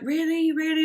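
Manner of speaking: high, questioning double "really"; mock disbelief. Unsure mum asks her friend whether it would work, high-pitched disbelief. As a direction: act out a friend's hopeful disbelief. Juliet's unsure reply acted out.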